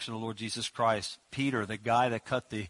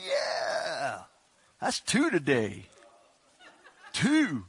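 1 nonchalant Peter; much slower than usual. Retold or imitated. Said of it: "I just think he was like".

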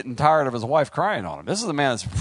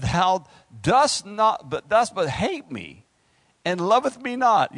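mock whiny wife; 6 semitones higher, 3 dB louder, slower than usual. Preacher voicing Samson's weeping wife.

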